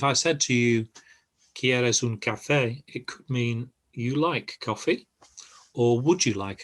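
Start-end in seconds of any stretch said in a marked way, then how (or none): 1.5-2.8 "café" lifted gently as a question; slow question tune ending on café; questioning inflection. Shown as a demonstration. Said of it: "the inflection of your voice". 3.9-5.1 "like coffee" lifted into a question; statement wording with a rising question tune on "like coffee"; questioning inflection. Shown as a demonstration. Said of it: "the inflection of your voice".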